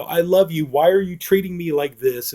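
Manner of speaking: lightly imitated tearful plea; in tears. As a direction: act out her hurt appeal without real crying. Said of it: "the woman's in tears".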